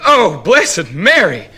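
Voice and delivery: high, slow, loud exclamation; loud cry. Acted. Myrtle crying out to Mary in bed, high slow cry. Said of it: "she said".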